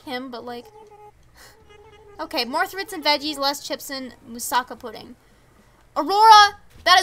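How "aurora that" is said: calling out sharply by name; loud call. Real, not acted. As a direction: shout the name to scold. Scolding villager, calling out.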